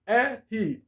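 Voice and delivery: "R" drawn out slowly in two syllables, "EH... hee"; slowly name "R" as Brazilian "érri"; "R" as a slow teaching "eh-hi"; Portuguese letter R. Shown as a demonstration. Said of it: "Vamos falar R".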